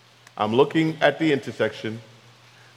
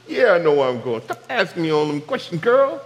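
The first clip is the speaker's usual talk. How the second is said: macho bravado; 2 semitones higher than usual. Retold or imitated. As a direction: puff up and play the know-it-all husband. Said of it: "My manhood kicked in".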